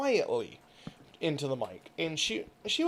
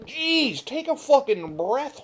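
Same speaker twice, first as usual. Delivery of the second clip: higher and louder, fed up; exasperated; 7 semitones higher, 5 dB louder, slower than usual. Retold or imitated. Viewer fed up with the ASMR lady, exasperated. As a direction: throw up your hands at her. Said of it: "I'm like".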